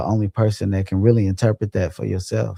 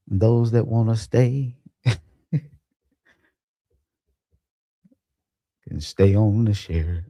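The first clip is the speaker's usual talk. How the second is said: pirate voice; 2 semitones higher than usual. Pretend. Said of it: "trying to sound like a damn pirate".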